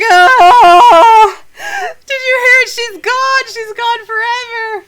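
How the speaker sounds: hammed-up high, loud wailing; bursting into tears. Mother to the party about her missing child, hammed-up tearful wail. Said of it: "she bursts into tears".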